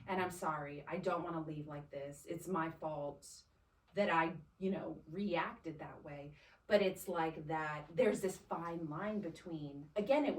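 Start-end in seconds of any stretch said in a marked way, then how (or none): 0.1-6.3 softer, lower sorry; apologizing sincerely on the phone to her husband; humble apology. Retold or imitated. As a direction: eat humble pie gently. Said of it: "apologize and humble myself".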